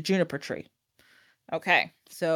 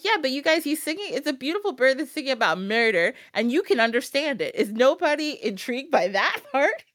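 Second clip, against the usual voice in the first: high exasperated protest; mock exasperated; incredulous; 5 semitones higher than usual. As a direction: plead with them in disbelief. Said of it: "And I'm like".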